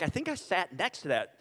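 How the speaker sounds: sheepish laugh through the words. Retold or imitated. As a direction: giggle as you admit it. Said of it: "Some of you are like".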